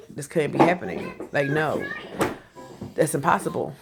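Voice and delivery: shocked disbelief. Retold or imitated. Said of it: "just shocked".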